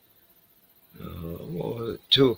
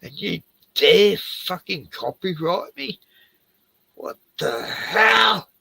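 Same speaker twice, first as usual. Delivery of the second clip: mock indignant comment; 5 semitones higher than usual. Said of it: "I'm gonna s-, say that in his comments".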